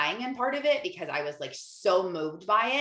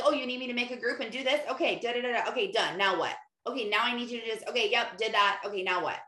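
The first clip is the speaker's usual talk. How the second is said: quick, higher, breezy rattling through tasks; easy breezy; 4 semitones higher, faster than usual. Retold or imitated. Imitating how breezy tasks feel when she's inspired, quick and high. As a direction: tick each job off without a care.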